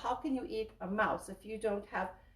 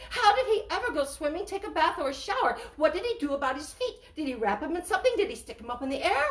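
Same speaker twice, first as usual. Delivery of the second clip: quick, high, playful questions; excited silly questions; 4 semitones higher, 3 dB louder, much faster than usual. Acted. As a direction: tumble out the questions, amused.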